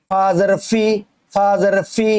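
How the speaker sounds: "ফি" with upper teeth touching the lip. Shown as a demonstration. Teacher shows where fa is made, teeth on lip. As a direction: make the "ফ" of "ফা জের ফি" on the inner lip. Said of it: "ঠোঁটের পেট থেকে উচ্চারণ হবে".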